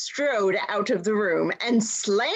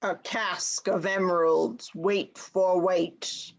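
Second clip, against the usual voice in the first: deep rumbling dwarf; 3 semitones lower than usual. Acted. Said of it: "deep rumble of Quando's voice".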